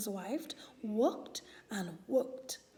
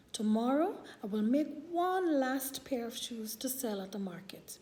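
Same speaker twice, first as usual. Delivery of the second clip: sad. Acted. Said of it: "he said sadly".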